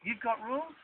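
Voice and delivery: high, breezy, slowing right down at the end; Aussie larrikin. Retold or imitated. Guide voicing carefree Australians dismissing rules, laid-back. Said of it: "That's that Aussie larrikinism".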